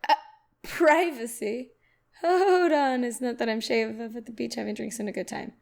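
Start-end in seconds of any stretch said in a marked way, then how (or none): 0.6-1.7 incredulous. Real, not acted. Incredulous repeat of tweet word.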